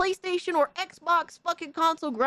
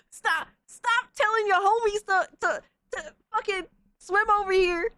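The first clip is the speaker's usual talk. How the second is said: higher, laugh-cracked pleading; laughing plea; 7 semitones higher than usual. Real, not acted. Streamer begging the convert through laughter: laughing whine.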